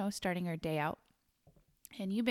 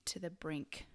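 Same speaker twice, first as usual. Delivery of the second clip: spooky whisper; 2 semitones lower, 9 dB quieter than usual. Acted. Host teasing her co-host before a scary story, in a spooky whisper.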